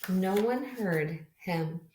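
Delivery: gentle storybook read-aloud; reading to children. Acted. Teacher reading a picture book to her class, gentle storytelling. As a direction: read it to a class of little kids.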